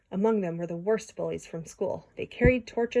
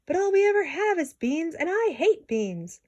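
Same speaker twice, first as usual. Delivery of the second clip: giant's complaint; 10 semitones higher, 4 dB louder than usual. A narrator's reading. Giant complains about beans.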